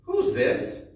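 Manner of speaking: breathy squeaky whisper, high; high whispered quiz. Shown as a demonstration. Teacher quizzing children in a high whisper. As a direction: whisper the question like a secret game.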